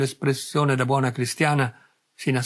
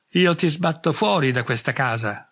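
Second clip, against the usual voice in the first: a mild growled threat, barely above normal level; muttered warning with a snarl in it. Acted. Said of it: "ringhiò".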